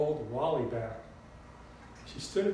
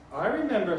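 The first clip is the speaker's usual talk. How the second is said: high, loud Southern grandmother; Southern drawl; 5 semitones higher, 6 dB louder than usual. A narrator's reading. Grandmother remembering the talk in the car, emphatic Southern drawl. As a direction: declare it in a lively Southern voice. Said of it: "in her sweet southern drawl".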